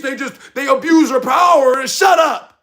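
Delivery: high, loud angry outburst; heated shout that boils over; real anger. Real, not acted. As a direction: lose your temper and snap shut up. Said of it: "I, I do need to calm down".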